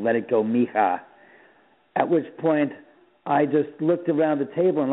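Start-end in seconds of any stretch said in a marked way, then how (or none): 0.0-1.0 man's voice. Retold or imitated. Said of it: "it was a man's voice".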